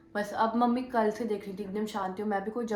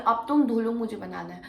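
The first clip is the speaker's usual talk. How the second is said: loud, bossy mock order; imitating attitude; 5 dB louder than usual. Didi ordering her to wash dishes, bossy attitude. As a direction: throw the command at her with attitude. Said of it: "वो इस attitude में कहती है".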